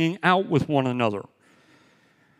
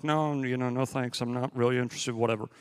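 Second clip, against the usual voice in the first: low, quiet mumbled brush-off; uninterested teenagers; 4 semitones lower, 6 dB quieter than usual. Retold or imitated. British teenagers brushing off their parents at Disney, uninterested. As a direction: imitate bored teens, softly and low.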